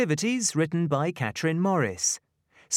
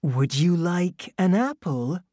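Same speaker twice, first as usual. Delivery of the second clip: tiny tinkling fairy voice; 5 semitones higher, 4 dB louder than usual. A narrator's reading. The fairy speaks.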